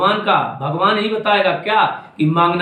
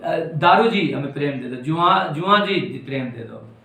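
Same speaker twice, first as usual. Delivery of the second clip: mock beggar's plea; 5 semitones lower, 3 dB quieter than usual. Guru mocking a mind that begs for love, lower, softer pleading. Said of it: "जा रहा भिखारी बन के".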